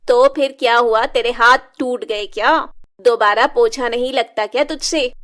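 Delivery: loud, harsh mother's rebuke; angry scolding. Acted. Stepmother berating Shilpa over mopping, loud and angry. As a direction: berate her loudly.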